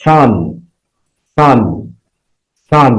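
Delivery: সান said singly, closing on a clear dental "n"; final n sound. Shown as a demonstration. Teacher showing students the last sound of sun, clear final n. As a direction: sound out the "n" at the end of সান, word by word. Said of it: "দন্তের ন উচ্চারণ হচ্ছে".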